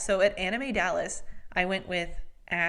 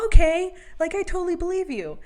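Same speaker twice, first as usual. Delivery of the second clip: sarcastic agreement; 10 semitones higher, 8 dB louder, faster than usual. Retold or imitated. Sarcastic reply to Jen's denial.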